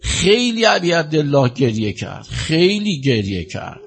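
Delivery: sorrowful eulogist's lament; mournful lament. Real, not acted. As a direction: stretch the words in sorrow, letting each phrase sink. Preacher laments Hussein's weeping.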